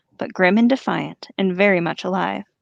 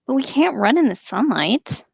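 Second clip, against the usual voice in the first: higher, pleading orc voice; whiny orc; 5 semitones higher than usual. Acted. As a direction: whine it like a scared orc. Orc complaint.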